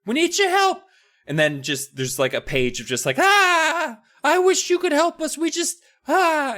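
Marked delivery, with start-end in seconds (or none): 0.1-0.8 very high mocking gnome whine; mock squeaky gnome. 3.2-6.6 very high, wailing gnome voice; mock whiny gnome.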